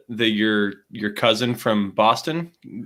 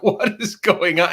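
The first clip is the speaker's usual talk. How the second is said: slow, much higher puzzled question; confused; 11 semitones higher, 4 dB louder, slower than usual. Retold or imitated. Retelling confusion at the ad, slow high puzzled. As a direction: act baffled by the ad.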